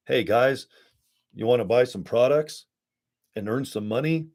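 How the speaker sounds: mock sales pitch, lightly done; pushy salesman pitch. Mocking salesy recruiters, light hammed-up pitch. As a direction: parody a cheesy sales hook. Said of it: "It's not so salesy".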